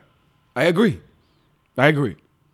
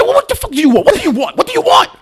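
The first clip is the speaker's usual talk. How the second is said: retold angry reply; 10 semitones higher, 4 dB louder, faster than usual. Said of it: "I said".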